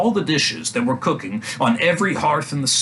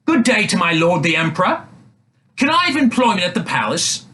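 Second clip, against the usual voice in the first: disguised prince's voice; 7 semitones higher, 3 dB louder than usual. A narrator's reading. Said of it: "He said".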